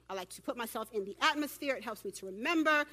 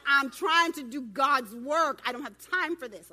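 mock Jesus reply; 9 dB louder than usual. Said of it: "And he's like".

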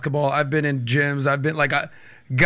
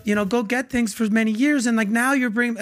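mock hurt woman; 3 semitones higher than usual. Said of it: "this is how women operate".

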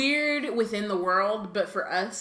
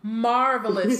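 mock posh; 3 semitones higher, 5 dB louder, slower than usual. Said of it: "said George".

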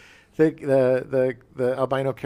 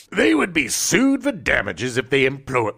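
Farrah Fawcett. Acted. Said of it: "that's Farrah Fawcett".

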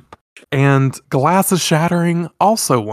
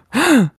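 sharp, high gasp of surprise; startled gasp; 13 semitones higher, 5 dB louder than usual. Retold or imitated. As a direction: gasp as someone pops up behind. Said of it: "And then".

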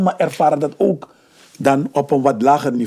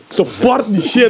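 excited; 10 semitones higher, 5 dB louder, slower than usual. Real, not acted. Loud hype shoutout.

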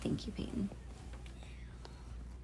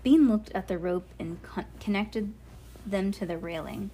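measured, clearly projected storybook reading; story read-aloud; slower than usual. A narrator's reading.

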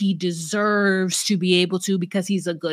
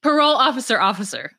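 laughing; 3 semitones higher than usual. Real, not acted. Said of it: "that was funny to me".

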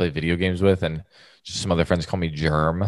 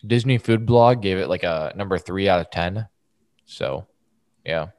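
talking with a mouth full. Real, not acted. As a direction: mouth full of Cheetos, chewing. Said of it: "Sorry, I'm eating Cheetos".

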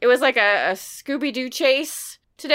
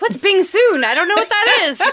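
high, louder puzzled voice; confused self; 9 semitones higher, 7 dB louder than usual. Retold or imitated. Host mimicking her own mishearing, high and puzzled. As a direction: play your own baffled self. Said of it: "I'm like".

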